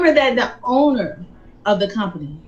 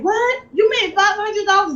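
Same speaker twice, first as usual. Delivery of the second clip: high, disbelieving rising cry; astonished husband; 11 semitones higher than usual. Retold or imitated. Husband hearing his wife made five hundred dollars, stunned disbelief. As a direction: blurt it out in shock. Husband hears about the win.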